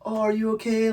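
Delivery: mock concern. Imitating everyone round someone sad, mock concern. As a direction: coo it like an over-worried friend. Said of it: "when someone's sad, everyone's all like".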